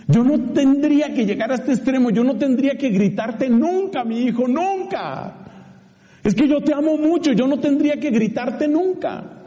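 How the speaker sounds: a loving dad forced to scold; father's voice. Retold or imitated. Father to his son, a hint of pained scolding.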